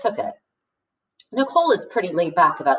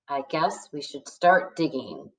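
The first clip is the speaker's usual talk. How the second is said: sighing; 5 semitones lower, 6 dB quieter than usual. A narrator's reading. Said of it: "Sophie sighed".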